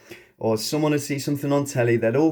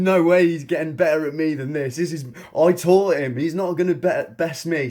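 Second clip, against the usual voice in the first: fired-up boast; 4 semitones higher than usual. Retold or imitated. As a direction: fire off a proud, competitive boast. Competitive retort to friend.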